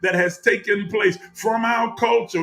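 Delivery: building, impassioned sermon with long pauses; preaching. Acted. Preacher urging the congregation toward their authentic truth, impassioned. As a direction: swell and sink like a preacher at full force.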